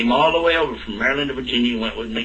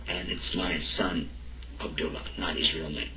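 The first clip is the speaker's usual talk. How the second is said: tearful; 7 semitones lower, 13 dB quieter than usual. Retold or imitated. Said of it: "just started crying".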